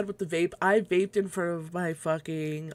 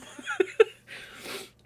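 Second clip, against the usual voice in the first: high laugh. Real, not acted. Laughing at lost vapes.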